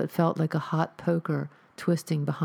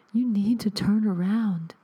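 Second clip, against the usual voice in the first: ghostly warning; 5 semitones higher, 4 dB louder than usual. Acted. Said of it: "a ghostly voice".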